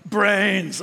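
slow, drawn-out zombie groan of brains; zombie moan. Retold or imitated. Preacher imitating zombies for the congregation, slow moan. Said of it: "what do zombies do".

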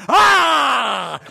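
loud, long imitated mother bear roar; mama bear's roar. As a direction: roar loudly behind the cub to scare off the lion. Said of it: "the Mama bear was behind him going".

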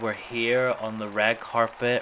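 breathless awards host hype; gushing red carpet chatter. Pretend.

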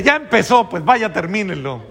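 exasperated superior. Retold or imitated. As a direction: throw up your hands, go finish it. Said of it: "Y le dice".

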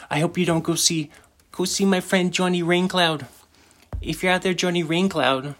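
high-pitched mock Italian mobster. Podcaster signing off as the mobster, mock Italian accent. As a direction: slip into the hammed-up Italian mobster.

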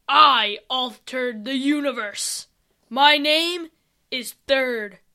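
slow, lightly voiced threatening king; menacing villain. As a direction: drag out the threat like an evil ruler. Villain reveals his name.

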